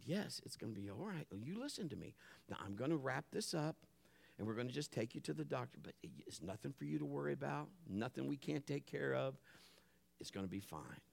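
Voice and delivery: soft, composed father voice; hushed, steady comforting; calm reassurance. Retold or imitated. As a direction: quietly talk a scared child down. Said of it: "her level went from here".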